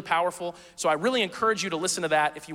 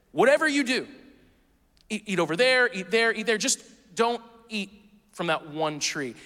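lightly voiced God, pointing around the garden, slowing on the last tree; a hint of a patient father showing where to eat; God pointing kids to the good trees, a light playful voice.

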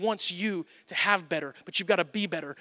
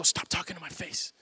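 a quieter take on the daughter's brush-off; softer toddler quote; 6 dB quieter than usual. Retold or imitated. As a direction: say it softer, lightly imitating a two-year-old. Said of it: "she'll go".

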